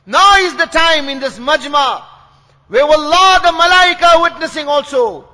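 emphatic preacher's call to act now; insistent, driving sermon appeal; urgent exhortation. Real, not acted. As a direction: urge the congregation to decide. Preacher urges congregation to volunteer.

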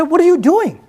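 older companions chiding the eager youths, half-acted; retold scolding. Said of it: "yelled at the younger ones and said".

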